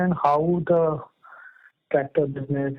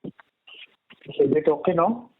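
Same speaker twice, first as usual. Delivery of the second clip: slightly muffled voice; 2 semitones higher than usual. Real, not acted. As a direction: talk a bit muffled, covered mouthpiece. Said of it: "but it's still muffled".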